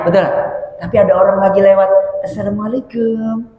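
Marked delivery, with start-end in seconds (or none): 2.3-3.5 slow, quiet, devout salaam; soft, pious greeting. Shown as a demonstration. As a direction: greet him softly like a pious man. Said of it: "Beda nggak?". (salam pelan dan lembut)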